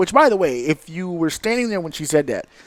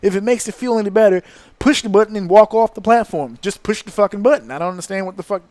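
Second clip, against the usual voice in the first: exasperated rant; 5 semitones higher than usual. Retold or imitated. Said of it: "It's like".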